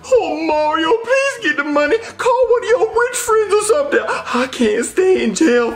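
high, whining plea; pleading. Acted. Black Yoshi begs Mario for bail money, high whining plea. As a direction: beg desperately for help.

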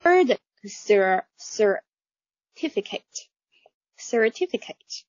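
slow American certificate with a curled r; American pronunciation. Shown as a demonstration. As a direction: certificate 慢读，卷舌美式. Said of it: "美式发音里面这个儿". (美式慢读 certificate)

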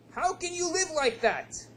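incredulous question. Acted. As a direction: ask as if the poverty shocks you. Wealthy man asks in disbelief.

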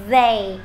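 "They" with the tongue pushed out on TH. Shown as a demonstration. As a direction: isolate "They" for learners, tongue between the teeth. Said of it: "cô đẩy lưỡi ra ngoài này".

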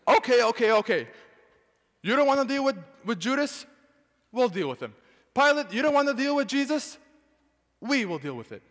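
eager crowd taking the blame. Acted. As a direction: jump in to take it on. Voicing the crowd accepting.

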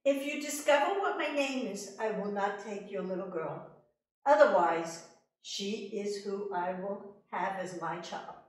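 loud, high, teasing little man; little man daring the queen to guess; sly little man. Acted. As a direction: taunt her with the name riddle. Little man sets the riddle.

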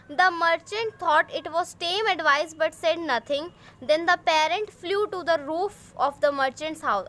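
put-on slow, clear English read-aloud for young pupils; teacher reading the story aloud slowly; slow storybook reading. A narrator's reading. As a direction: read each word out slowly for the class.

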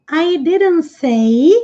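didn't dito devagar, com o t cuspido; som cuspido. Shown as a demonstration. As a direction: cuspa o t de didn't. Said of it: "e ele faz novamente o, aquele som cuspindo". (didn't com o t cuspido, bem lento)

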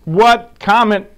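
high, loud, startled questioning; mock confusion. Dad reacting to the kids' chorus, mock bafflement. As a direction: act baffled by what was shouted.

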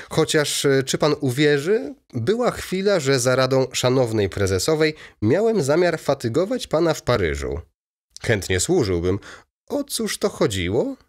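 put-on a chatty old baron pleased with himself; lightly voiced chatty baron. A narrator's reading.

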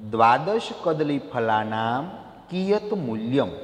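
teacher dictating slowly; slow careful reading. Shown as a demonstration. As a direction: read the Sanskrit question slowly, syllable by syllable. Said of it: "પહેલો પ્રશ્ન".

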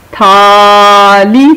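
very slow تھالی with a breathy th; aspirated th. Shown as a demonstration. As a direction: stretch تھالی, push air on the th. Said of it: "یہ بن جائے گا تھ". (تھالی بہت آہستہ، تھ پر سانس کے ساتھ)

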